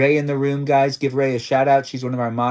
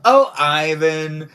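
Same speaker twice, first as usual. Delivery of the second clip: drawn-out coy sigh; 4 semitones higher, 7 dB louder, much slower than usual. Shown as a demonstration. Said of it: "I said".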